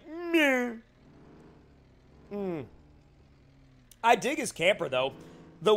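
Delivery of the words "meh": high-pitched imitated "meh". Streamer mimicking the dude at Mach ten, imitated noise. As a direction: toss out a high little "meh". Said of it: "Dude was like".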